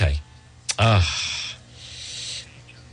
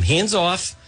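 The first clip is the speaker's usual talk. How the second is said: sarcastic mayor quote; 4 semitones higher than usual. Retold or imitated. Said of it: "who tells them".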